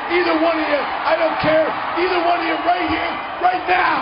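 shouted challenge into the ring; yelling across the room. Real, not acted. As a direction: call them out, full volume. Wrestler calling out rivals.

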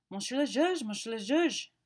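high, loud, breathless urgent calling. Acted. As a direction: burst in calling for the judge. Commissary bursts in with news.

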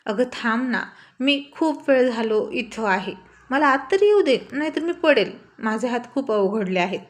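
frightened plea from the balcony; pleading in fear. Acted. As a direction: beg her, scared of falling. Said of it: "Indra घाबरून म्हणाला".

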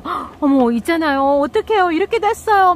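high, loud flustered alarm; alarmed panic. Retold or imitated. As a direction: blurt the bad news in a panic. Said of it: "제가 막 놀래면서".

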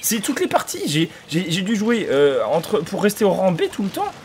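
furious high yelling; losing it at useless teammates; raging. Real, not acted. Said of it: "désolé pour la rage".

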